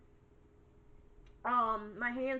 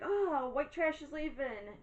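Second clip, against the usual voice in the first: mock excited; 5 semitones higher than usual. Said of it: "I keep getting all excited".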